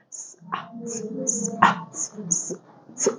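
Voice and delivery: quick run of s and ah sounds. Shown as a demonstration. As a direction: speed up the sounding out. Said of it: "Now let's make it faster".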